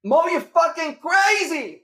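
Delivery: high, loud, slow disbelief; amazed friend. Retold or imitated. Coach amazed his student bought a Ferrari, high and slow. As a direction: stretch it out in stunned admiration.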